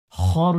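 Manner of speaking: খ said thick and full from the throat; heavy kha. Shown as a demonstration. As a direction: make the kh of খর heavy. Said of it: "উচ্চারণটি মোটা করতে হবে".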